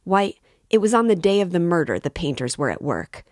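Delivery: high and loud, building; agitated shout. A narrator's reading. Razumihin protesting to Porfiry, loud. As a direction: press the point in alarm. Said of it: "Razumihin shouted suddenly".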